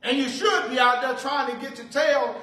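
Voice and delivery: lightly voiced taunting master; scornful Pharaoh. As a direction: scold the lazy slaves like a mocking king. Preacher voices Pharaoh scolding.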